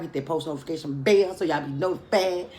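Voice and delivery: "Hit that post notification bell" pressed hard; emphatic outro. Real, not acted. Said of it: "why I put emphasis on that".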